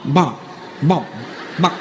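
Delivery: short clucks like a chicken; name turned into chicken clucks; chicken impression. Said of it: "doing chicken impressions right now".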